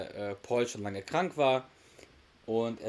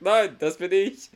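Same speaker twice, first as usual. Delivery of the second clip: higher, louder and slow, barely holding a laugh; amused punchline; 7 semitones higher, 8 dB louder, slower than usual. Retold or imitated. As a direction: deliver the punchline grinning. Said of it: "und sagt". (lachend, langsam betont)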